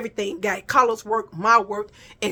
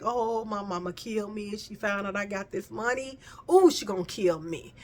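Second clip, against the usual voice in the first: softer, fretful aside; worried hush; 6 dB quieter than usual. Retold or imitated. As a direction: fret quietly about mama finding out. Worried thought about mama.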